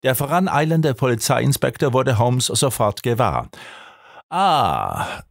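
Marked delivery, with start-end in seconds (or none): 4.3-5.2 long, falling "ah" of greeting; pleased recognition with a smile in it; an affable, drawn-out hail; smiling exclamation. A narrator's reading. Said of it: "rief dieser lächelnd".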